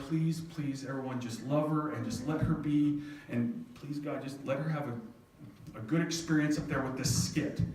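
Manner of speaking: softly pleading; retold prayer, gently begging; little prayer. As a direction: murmur an earnest little prayer. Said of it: "saying a little prayer".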